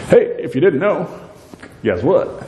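a boastful, gloating Haman, lightly voiced; mock boast to his friends; bragging Haman. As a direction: brag it to the crowd, teasing them. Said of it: "He bragged to them".

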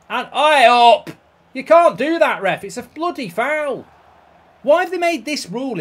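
loud outraged yell at the ref; angry protest. Real, not acted. Gamer yelling at the ref over a foul, outraged. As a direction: shout down a bad call.

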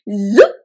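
quick "zoop" sweeping upward; tights-pulling zip. Shown as a demonstration. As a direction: imitate tights being pulled on. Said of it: "can you make that sound".

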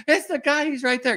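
high, loud retold yell across the park; yelling for a cop. Young clerk chasing a shoplifter, yelling high and loud. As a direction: shout for the cop to come over. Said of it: "I'm yelling for a cop".

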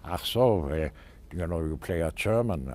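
light German accent. Shown as a demonstration. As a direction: slip into a German dialect. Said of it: "different dialects, you know, German".

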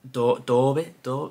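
halting, unsure go at a Derby accent; attempted Derby accent. Shown as a demonstration. Quiz player testing the local name, faltering Derby accent. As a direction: try "Dorby" in the local Derby accent, tentatively. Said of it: "I can't do the accent".

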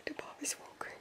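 soft unvoiced whisper. Real, not acted. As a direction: hush it so nobody wakes. Whispering to waking baby.

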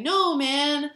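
lightly hammed-up streetcar argument; mock bickering. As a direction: act out the back-and-forth spat. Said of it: "they're saying".

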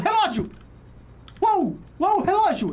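high, loud shout on spotting it; excited surprise. Real, not acted. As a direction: burst out in sudden discovery. Spots the clock anomaly.

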